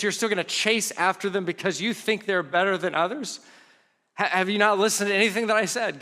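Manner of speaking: exasperated scolding rebuke. Retold or imitated. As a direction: scold them like a frustrated teacher. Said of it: "where Paul is almost scolding them".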